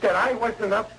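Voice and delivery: high, halting, panicked disbelief; dawning horror. Acted. Patient learning he still has tonsils, horrified. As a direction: stammer toward the awful truth, panic rising.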